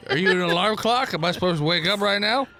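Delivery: put-on slurred, sloppy drunk talking to a robot. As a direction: play a friendly drunk cooing at a baby. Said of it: "This is my drunk voice".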